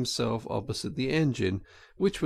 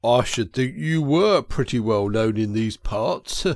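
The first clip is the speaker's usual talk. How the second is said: clerk throwing a boast back, louder; mocking ticket clerk; 5 dB louder than usual. Clerk answers Toad's boast, loud and mocking. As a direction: put down a chancer at the ticket window.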